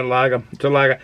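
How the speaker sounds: local Boston "lager", final r dropped; Boston way of saying "lager", no r; Boston accent. Shown as a demonstration. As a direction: say "lager" as "lah-guh", like a Bostonian. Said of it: "that's how we talk around here".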